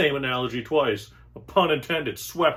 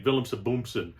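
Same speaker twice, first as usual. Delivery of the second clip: mock German. Comedian imagining a German come-on, mock German. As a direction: fake German gibberish. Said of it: "come up to me and say".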